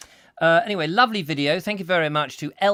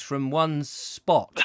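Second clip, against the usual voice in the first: laughing shout; 3 semitones lower, much slower than usual. Real, not acted.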